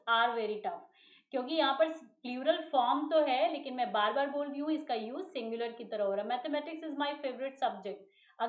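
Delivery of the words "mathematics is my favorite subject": very slow, word by word; slow example read. Shown as a demonstration. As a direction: dictate the sentence slowly to the class. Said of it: "Again आप देखेंगे is". (धीरे-धीरे उदाहरण बोलना)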